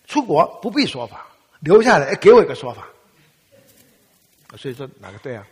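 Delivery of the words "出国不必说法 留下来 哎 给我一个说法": much louder, higher exasperated retort; indignant father. Retold or imitated. Father scolding son for staying home, loud and exasperated. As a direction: hammer home the father's outrage.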